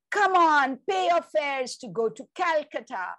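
put-on high, loud call of a playful child; child shouting. Child playing railway engine calling out to passengers, loud shout. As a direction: holler like a boy playing train conductor. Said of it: "I shout".

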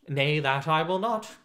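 gruff, loud refusal; rough refusal. Acted. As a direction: bark out the refusal. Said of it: "quoth the stranger roughly".

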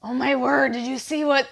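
ordinary talk, nothing marked

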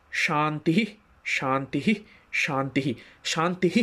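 শান্তিঃ with a firm breathy h at the end; breath out on Shanti. Shown as a demonstration. Teacher showing how শান্তিঃ ends on a forced breath. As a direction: push the visarga out on the exhale. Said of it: "এটা জোর করে বলছি".

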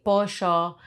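pollo with a Rioplatense "sh" for the ll; Argentine accent. Shown as a demonstration. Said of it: "imitate that one because I'm from Uruguay".

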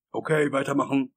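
loud foreman's order; gebrüllter Befehl. A narrator's reading. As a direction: call the crew back to work, loudly. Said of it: "brüllte Warwick". (laut gebrüllter Befehl)

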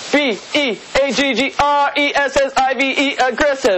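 cheerleader spell-out. Acted. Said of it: "Ohio State cheerleader uniform".

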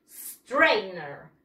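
"Strainer" low and careful, clean initial s; model pronunciation. Shown as a demonstration. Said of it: "¿Cómo?".

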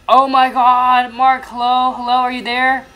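high, loud frantic calls into the phone; frantic calling. Acted. Monica calling out to Mark, high and frantic. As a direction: call out for Mark in a panic.

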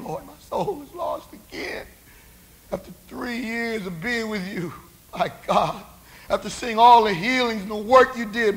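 acted tearful lament to God; preacher voicing a grieving penitent; bitter weeping. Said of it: "He wept bitterly".

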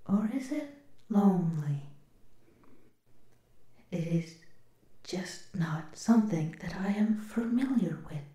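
gentle robot whisper. Acted.

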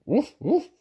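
high, loud barked woofs; lightly weary woof. Acted. Fergus telling everyone back to bed, high barking woof. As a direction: bark it out, a touch fed up. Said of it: "said Fergus wearily".

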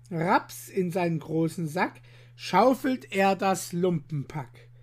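lively rhyming story read aloud; bouncy verse storytelling; poem recitation. A narrator's reading. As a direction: tell the rhymes like a storyteller for children. Rhymed tale read aloud.

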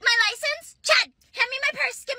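hammed-up teen complaining to laughing friends; mock upset whine. Teen driver whining at friends who laugh, mock upset.

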